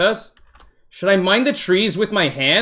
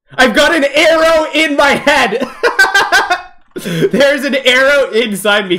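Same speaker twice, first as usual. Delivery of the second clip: laughing in disbelief; 6 semitones higher, 4 dB louder than usual. Real, not acted. Shot by an arrow.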